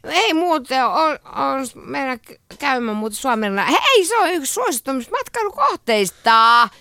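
put-on mildly slurred, giggly tipsy teenager; drunk teen. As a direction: stumble through the words like a drunk teen. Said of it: "lukisit humalaisena teininä".

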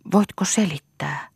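a hushed, breathless whisper. A narrator's reading. Aulis whispers to Lea, asking her to explain. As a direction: whisper the question, barely voiced. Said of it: "Aulis puhui kuiskaamalla".

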